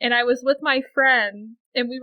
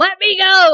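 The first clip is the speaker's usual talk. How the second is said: very loud, high, furious angry yell; 8 semitones higher, 11 dB louder than usual. Retelling struggling to get away from a woman screaming at them: retelling yelling at her. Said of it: "I'm starting to yell at her".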